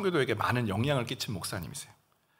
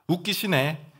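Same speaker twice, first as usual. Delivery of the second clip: scoffing retort; 2 semitones higher, slower than usual. Shown as a demonstration. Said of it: "이렇게 대처해야 돼요".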